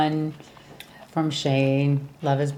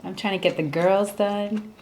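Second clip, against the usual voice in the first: Jimena; 2 semitones higher than usual. Retold or imitated. Woman refusing Mike access to her, mock indignant. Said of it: "Is how Jimena's playing it".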